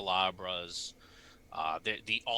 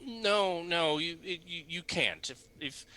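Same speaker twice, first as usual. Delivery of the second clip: priest voice; 6 semitones higher than usual. Acted.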